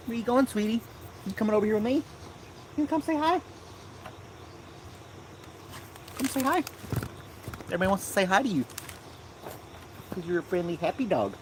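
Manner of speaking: high cooing voice for the dog; pet talk. Real, not acted.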